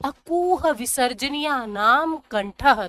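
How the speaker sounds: slow chanted rule to memorise; slow, measured Sanskrit recitation; sutra recitation. Shown as a demonstration. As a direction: recite the sutra slowly for pupils. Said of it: "दो चार बार पढ़ोगे याद हो जाएगा".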